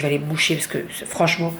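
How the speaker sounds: stuffy nose, talking through the nose; blocked nose. Real, not acted. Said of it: "parler du nez comme là".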